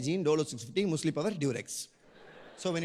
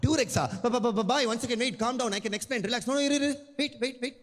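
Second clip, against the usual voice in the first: flustered panic; 5 semitones higher, faster than usual. Acted. Flustered customer backpedals.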